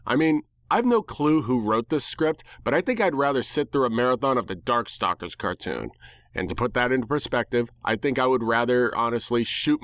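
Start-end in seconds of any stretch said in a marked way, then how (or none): none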